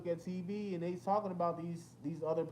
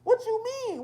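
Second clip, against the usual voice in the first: What you mean, pushed higher and louder the second time; louder repeat; 8 dB louder than usual. Retold or imitated. Repeating his question to his friend, higher and louder.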